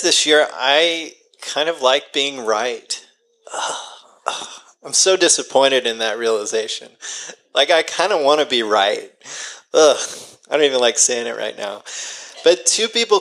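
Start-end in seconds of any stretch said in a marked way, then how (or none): 3.5-4.5 short groans of self-disgust; two brief, breathy ughs. Real, not acted. Admitting to the congregation she likes being right, disgusted groan. 9.7-10.0 single short groan of distaste; disgusted groan. Real, not acted. Confessing she wants to be right, disgusted groan. Dislikes admitting wanting to be right.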